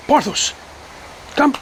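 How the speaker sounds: short, firm command to the dog; firm but calm, not angry; firm call. Real, not acted. Trainer calls his dog firmly, firm tone. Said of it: "You may need to change your tone".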